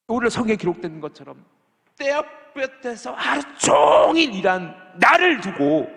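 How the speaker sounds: high, loud indignant protest, rising to a near shout; aggrieved complaint. Retold or imitated. Preacher voicing the early worker, loud indignant complaint. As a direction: protest the unfair pay as the wronged worker.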